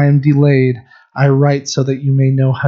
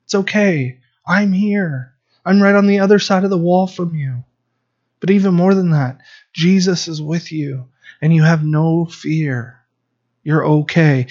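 put-on higher, gentle voice tucking a child in; soothing dad at bedtime; 3 semitones higher than usual. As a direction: reassure a frightened kid it's safe. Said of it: "And then I say".

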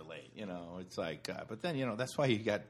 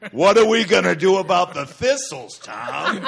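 much louder, laughing, higher plea; laughing mock plea; 9 semitones higher, 14 dB louder than usual. Farmer pleading with dad over thistles, laughing. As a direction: beg in a cracking-up voice.

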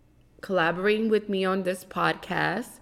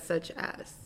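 whispered echo; 2 semitones lower, 9 dB quieter than usual. Retold or imitated. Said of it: "you said".

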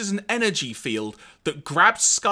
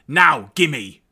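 Sharkticon; 7 dB louder than usual. Retold or imitated. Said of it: "then says, quote unquote".

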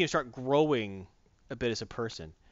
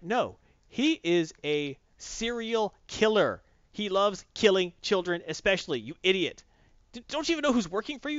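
high, emphatic mock scolding; acted-out exasperated telling-off; yelling; 6 semitones higher than usual. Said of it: "Anna starts yelling at the earpiece".

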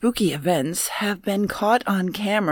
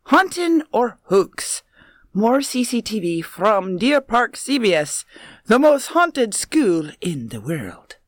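put-on Irish accent; 3 semitones higher than usual. Co-host reading the school's caption in a mock Irish accent. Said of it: "That suits you".

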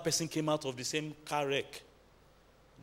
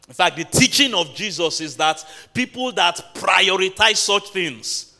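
raised, punchy preacher's delivery; loud sermon emphasis; emphatic preaching; 3 semitones higher, 8 dB louder, slower than usual. Real, not acted. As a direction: drive it home to the congregation, loud. Preacher raises his voice in bursts.

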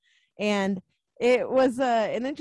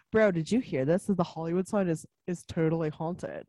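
put-on California surf-bro voice; California surfer accent; 3 semitones lower than usual. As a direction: do a mock California surfer dude. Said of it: "It was like a California accent".

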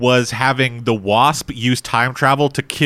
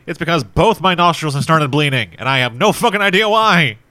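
nasally speech from nosebleed; 3 semitones higher than usual. Real, not acted. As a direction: talk through blocked, bleeding nostrils. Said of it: "if I sound nasally".

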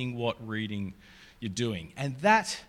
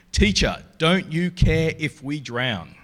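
louder, slowed, pleading cry; frightened plea; 2 semitones higher, 7 dB louder, slower than usual. Acted. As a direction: beg the teacher over the storm, slowly. Disciples panic in the storm.

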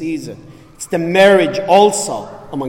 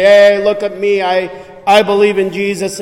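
arrogant boast; 4 semitones higher, 5 dB louder than usual. Retold or imitated. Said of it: "I'm not talking about arrogantly".

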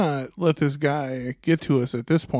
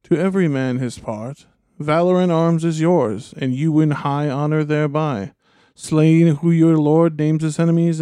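soft persuasive voice; 4 dB louder than usual. Acted. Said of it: "he went on in his soft voice again".

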